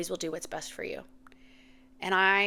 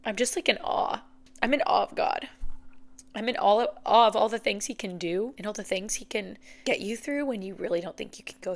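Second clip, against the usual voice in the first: choked up with emotion; 3 semitones higher, 3 dB louder than usual. Real, not acted. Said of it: "I'm getting so emotional".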